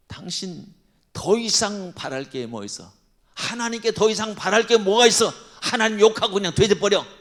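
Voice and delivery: the wife lashing out at Job in contempt; wife scolding. Retold or imitated. Job's wife yelling at him to curse God. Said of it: "그러면서 나가버리잖아요, 그 부인이".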